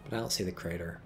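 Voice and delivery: whispered aside. Real, not acted. Caster unsure about a mine, whispering. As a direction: murmur it half to yourself.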